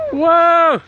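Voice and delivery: loud amazed whoa; excited whoa. Real, not acted. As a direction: gasp it out, impressed. Watching a big jump.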